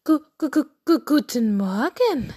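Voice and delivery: clucking stammer on the first syllable; high, stuttery hen greeting; stuttering hen. Acted. Narrator voices stuttering hen Henriette.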